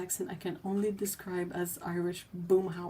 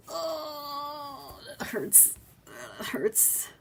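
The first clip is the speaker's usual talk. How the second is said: pained groan; 8 semitones higher, 4 dB quieter, much slower than usual. Real, not acted. Groans at the mangled name.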